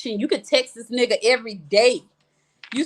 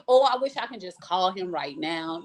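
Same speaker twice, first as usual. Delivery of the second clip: low-pitched, mock-dramatic yearning; dramatic longing; 5 semitones lower, 4 dB quieter than usual. Woman pining for her work husband, dramatic longing. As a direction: play up the lovesick wish. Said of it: "Y'all know I'm so dramatic".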